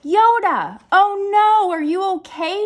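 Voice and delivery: high, loud alarmed woman; worried Beth. Acted. Beth rushing to the fallen cat, loud and alarmed. Beth finds Yoda hurt.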